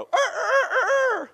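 high, slow rooster crowing; Jesus's warning acted with a rooster crow. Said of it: "the cock's gonna crow".

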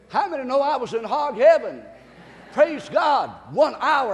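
exultant preaching. Real, not acted. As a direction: rejoice loudly to the congregation.

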